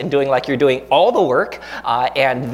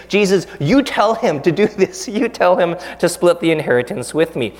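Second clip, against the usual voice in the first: bossy demand; 2 semitones higher than usual. Retold or imitated. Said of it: "trying to boss Jesus around".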